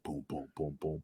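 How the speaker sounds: low, soft pulsing booms; imitated heartbeat. Wrestler retelling his racing heart, soft imitated thumps. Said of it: "my heart was like".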